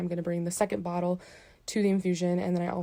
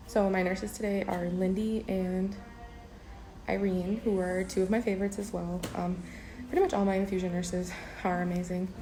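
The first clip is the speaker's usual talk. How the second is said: muffled by mask; 6 dB quieter than usual. Real, not acted. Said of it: "hard to talk with the mask on".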